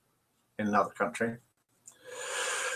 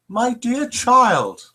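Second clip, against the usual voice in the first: slow nun voice; 8 semitones higher, much slower than usual. Acted.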